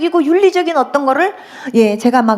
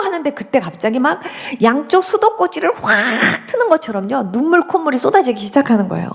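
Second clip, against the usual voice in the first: ordinary talk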